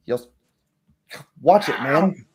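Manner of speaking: guard scolding the player who nearly hit him; irritated warning. Acted. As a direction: warn him off, annoyed.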